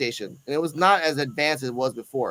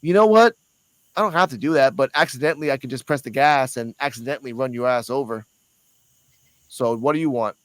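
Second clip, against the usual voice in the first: menacing cop; 5 semitones lower than usual. Retold or imitated. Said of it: "And he said this too".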